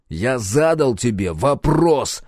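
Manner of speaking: slow, forceful snarl; slow barking demand. Acted. Captain barks at Roxy, slow menacing demand. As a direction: bark each word, slowly. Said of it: "рявкнул я".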